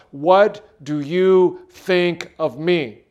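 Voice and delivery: slow, sincere asking; earnest question. Shown as a demonstration. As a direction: ask it slowly and honestly. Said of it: "I want you to ask God".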